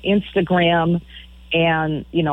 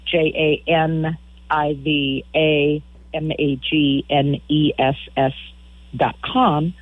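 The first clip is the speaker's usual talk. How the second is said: spelling out; slower than usual. Shown as a demonstration. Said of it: "go to my website".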